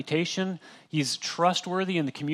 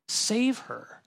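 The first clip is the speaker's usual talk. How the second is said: high plea of "Save her"; pleading; 7 semitones higher than usual. Shown as a demonstration. Father begging Jesus to save his daughter, high and pleading. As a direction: beg "Save her" on a sudden high note. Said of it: "but also really, like".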